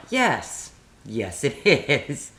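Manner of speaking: laughing agreement. Retold or imitated. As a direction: agree through a chuckle.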